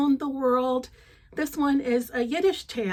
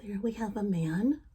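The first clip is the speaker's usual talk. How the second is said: voiceless hushed whisper; 2 semitones lower than usual. Real, not acted. Storyteller to child before reading, hushed whisper.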